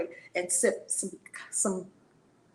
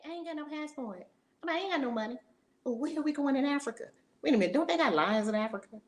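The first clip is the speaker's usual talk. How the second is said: higher, quick voicing of a scared self; mock panic; 5 semitones higher, faster than usual. Preacher mocking her own fearful excuses, mock panic. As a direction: play her own frightened excuses, half-joking.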